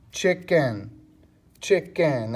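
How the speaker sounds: CHICKEN broken into two clear beats; syllable demonstration. Shown as a demonstration. Teacher showing students two syllables, CHICKEN sounded out by syllable. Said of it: "Let's see it real quick".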